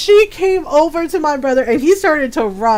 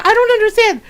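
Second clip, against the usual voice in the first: retold bewilderment; 8 semitones higher, much faster than usual. Bewildered boyfriend in retold story.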